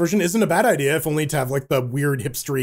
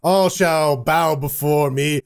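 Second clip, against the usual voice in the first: dark lord; much slower than usual. Pretend. Mock boast as Roblox master.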